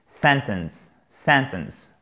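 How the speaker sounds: SENtence, open "e" in the stressed syllable; first-syllable stress. Shown as a demonstration. Teacher modelling the word for French learners, first-syllable stress. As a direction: lean on the start of sentence, let the end fall away. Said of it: "on a notre accent tonique en premier".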